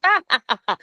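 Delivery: high staccato "ah" laughing; imitated group laughter. Retelling the team laughing at the spirit box, mock laughter. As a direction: act out everyone cracking up, high-pitched. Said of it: "as we're laughing".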